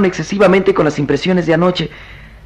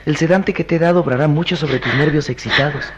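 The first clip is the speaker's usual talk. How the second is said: tender soothing; 2 semitones lower, 4 dB quieter than usual. Acted. Soothing sedated beloved, amor mío.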